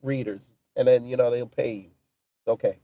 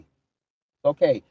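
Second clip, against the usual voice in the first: mock soothing; 2 semitones lower, much slower than usual. Mock soothing an angry commenter.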